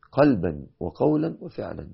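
leading a supplication; prayer. Acted. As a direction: pray it gently with them. Leads congregation in prayer.

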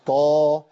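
طه said short as Ta-Ha with no hamza; correct Taha. Shown as a demonstration. Teacher demonstrating the right reading to viewers. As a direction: say طه as two open syllables, Ta then Ha. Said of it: "أقول".

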